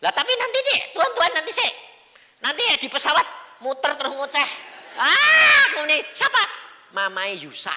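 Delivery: high, shouted objection to God; frantic protest. Acted. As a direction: protest in a comic yelping shout. Memerankan protes heboh kepada Tuhan. (protes heboh sambil berteriak)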